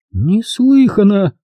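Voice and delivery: high, slow scandalised cry; a touch of shock; mild outrage. A narrator's reading. Miss Rushby shakes her head at the sum, mild outrage. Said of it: "покачала головой".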